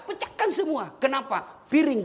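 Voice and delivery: ordinary talk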